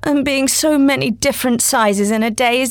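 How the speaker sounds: put-on a polite little girl explaining. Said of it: "Alice replied very politely".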